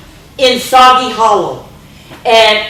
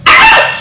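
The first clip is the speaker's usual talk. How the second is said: ouch; 7 dB louder than usual. Acted. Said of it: "mumbles Bruce".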